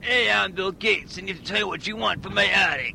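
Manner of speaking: a hint of a nerdy tech boss; Bill Gates. Tech boss Bill Gates replying to Watto, lightly put-on voice. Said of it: "how do I do Bill Gates?".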